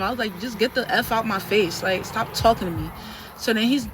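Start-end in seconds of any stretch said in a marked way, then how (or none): 0.4-2.9 loud angry order. Retold or imitated. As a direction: tell him to leave. Telling trainer off.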